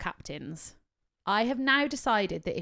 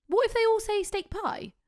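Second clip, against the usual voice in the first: exasperated; 12 semitones higher, 5 dB louder than usual. Real, not acted. Ranting about wedding orders.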